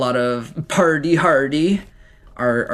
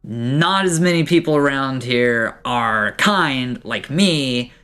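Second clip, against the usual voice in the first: friendly dwarf giving a firm warning; a touch of a dwarf lecturing a visitor; 3 semitones higher than usual. Acted. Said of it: "he's like".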